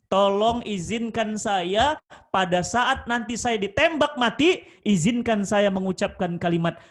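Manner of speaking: loud, slow, pleading; earnest last request. Retold or imitated. Condemned Freddy asks the guard for his final wish, slow and loud. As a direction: beg slowly and loudly for a last wish.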